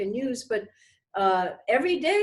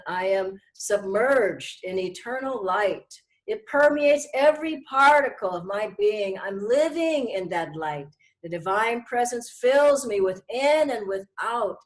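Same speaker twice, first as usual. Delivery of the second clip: devout affirmation; 3 semitones lower, 3 dB louder than usual. Shown as a demonstration. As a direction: proclaim it like a vow of light. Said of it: "that beautiful, uh, affirmation".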